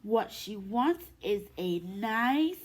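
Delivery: gentle, lively storybook read-aloud; reading to children. Acted. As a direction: read it to little ones at story time. Reads picture book to kids.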